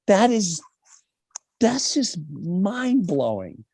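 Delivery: hushed slow whisper; slow whispered wonder; awed whisper. Real, not acted. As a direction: breathe it out in amazement. Awed aside.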